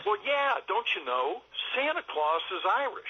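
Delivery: a light, high mock Irish lilt as Santa; imitating an Irish-accented Santa Claus. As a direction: put on a playful stage-Irish accent. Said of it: "that was me with an Irish accent".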